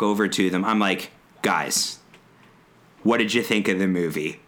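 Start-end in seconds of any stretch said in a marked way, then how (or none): 1.4-4.4 low, sweetly pointed question; fake-friendly jab at the noisy kids; lower-voiced passive-aggressive question to teens. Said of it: "just being so passive aggressive".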